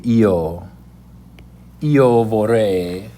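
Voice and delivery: "io vorrei" said slowly, EE-oh vor-REI; slow teacher's "io vorrei"; Italian demo. Shown as a demonstration. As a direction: model "io vorrei" slowly for the class. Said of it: "So we say".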